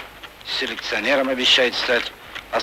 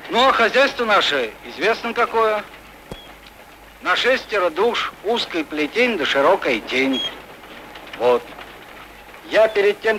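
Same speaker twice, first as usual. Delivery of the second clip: raised voice, speaking up; louder speaking; 4 semitones higher than usual. Acted. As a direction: speak up for the back rows. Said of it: "Громче".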